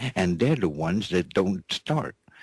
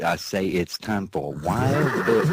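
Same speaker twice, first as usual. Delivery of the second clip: announcer intro, retaken. Acted. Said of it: "yeah, I say it".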